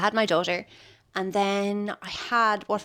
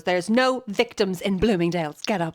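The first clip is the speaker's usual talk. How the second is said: stern mother; 3 dB louder than usual. Retold or imitated. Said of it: "her mother just goes".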